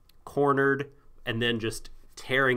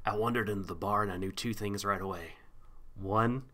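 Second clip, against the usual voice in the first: noir detective narrator. Retold or imitated. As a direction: narrate it like a pulp private eye. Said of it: "became the narrator".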